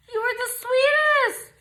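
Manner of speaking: high teary voice of gratitude; choked up with thanks; gasping, high and teary; touched, teary. Real, not acted. Thanking the sender.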